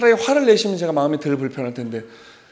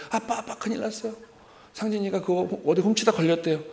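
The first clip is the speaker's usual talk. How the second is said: put-on higher, softer tattling girl's voice; a big sister rushing to tell on him, pitched up and hushed; 5 semitones higher, 4 dB quieter than usual. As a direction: sister telling dad the news in a higher, softer voice.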